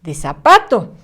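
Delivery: "Sa de zapato" said slowly, "Sa" leaned on; slow example. Shown as a demonstration. Teacher sounds out the example word slowly for the child. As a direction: linger on "Sa" in "Sa de zapato". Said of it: "Este es un zapato".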